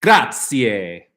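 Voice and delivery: a light Italian Grazie; grateful, in passing, in Italian; Italian thank-you. Real, not acted. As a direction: toss out Grazie in Italian, casually. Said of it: "I don't know why I'm speaking Italian".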